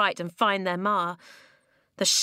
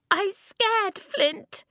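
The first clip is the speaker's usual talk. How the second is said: put-on high-pitched scared little girl; panicked child's wail; frightened cry; 13 semitones higher, much slower than usual. A narrator's reading. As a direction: cry out in fear, voice leaping high. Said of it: "she cried".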